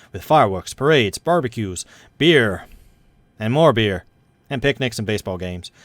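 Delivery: news read. Acted. Reads news event.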